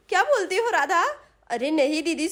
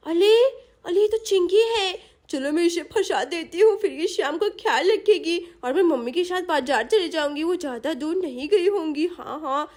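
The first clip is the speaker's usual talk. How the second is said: put-on lightly babyish lisp, plotting; scheming little girl. Sonam plots to leave Shyam with Chinki, scheming child voice. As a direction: think aloud like a small child hatching a plan.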